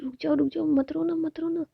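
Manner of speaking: anxious pleading. Acted. Pleading not to cry.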